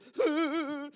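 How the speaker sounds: high wordless mock sob; mock crying. Moses breaking down after acting brave, mock sobbing. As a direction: fake a whimpering cry.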